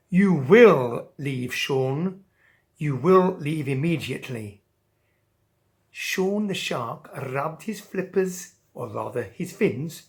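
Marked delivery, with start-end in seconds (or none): 0.1-4.6 slow, firm royal command; a hint of a stern king. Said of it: "And the King of the Fish said".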